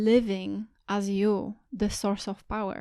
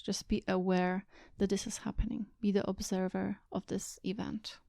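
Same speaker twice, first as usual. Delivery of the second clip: guided meditation. Real, not acted. Teacher guiding listeners to sit and watch their thoughts, calm meditation voice. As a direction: guide them gently inward, leaving space between phrases.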